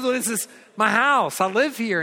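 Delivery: a hint of the bemused husband; husband telling his wife he lives here, mildly bemused; matter-of-fact husband. Husband answers calmly.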